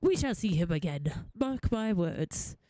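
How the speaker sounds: low, stately gentleman voice; confident old-fashioned gentleman. Acted. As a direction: assure the assistant in a low, lordly voice. Voices gentleman character in game.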